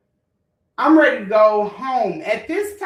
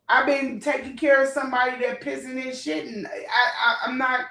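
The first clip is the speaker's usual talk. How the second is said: laughing through tears; 2 semitones higher than usual. Real, not acted. Breaking up while recounting caregiving.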